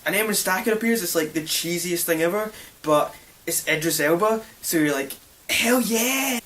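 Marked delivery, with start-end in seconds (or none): 5.5-6.4 higher-pitched acted cheer; excited cheer. Viewer reacting to Idris Elba, excited cheer. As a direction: cheer like a won-over film fan.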